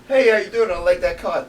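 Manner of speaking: high, loud imitation of a New York local; New York accent. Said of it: "New York accent and a, and a New Jersey accent".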